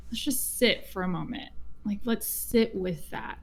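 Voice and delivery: soft and hushed, easing a crying client; softly inviting a client to pause and sit with tears; gentle comfort. Retold or imitated. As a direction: settle them down gently, almost murmuring.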